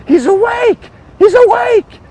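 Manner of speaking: very high, loud mock scream; imitated nurse's scream. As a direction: shriek the news like a startled nurse. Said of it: "I just hear screaming".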